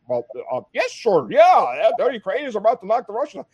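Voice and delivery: a hint of a yes-man officer; mocking a general agreeing. A touch of imitating the service chief humoring the senator. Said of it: "And he's like".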